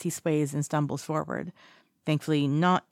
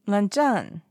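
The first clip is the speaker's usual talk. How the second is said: insistent call; 5 semitones higher, 5 dB louder than usual. A narrator's reading. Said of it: "he says again".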